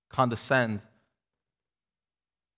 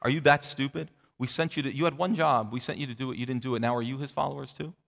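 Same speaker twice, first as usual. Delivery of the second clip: condescending sneer. Retold or imitated.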